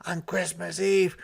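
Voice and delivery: a dramatic conspiratorial whisper. Acted. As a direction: whisper it like a big secret. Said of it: "whispered Santa dramatically with much feeling".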